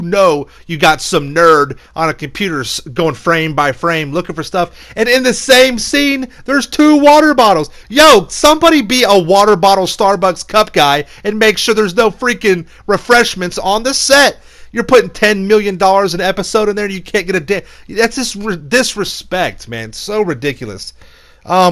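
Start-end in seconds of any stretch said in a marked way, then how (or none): 4.9-16.8 higher and louder, fed up; loud exasperated rant. Real, not acted. Scolding the set crew about stray cups, loud and fed up. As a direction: yell at the crew to clean up. Ranting about water bottles.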